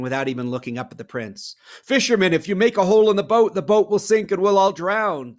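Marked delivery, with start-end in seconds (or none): 1.8-5.4 loud, fast, high urgent plea; urgent reasoning. Acted. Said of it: "the prince reasoned".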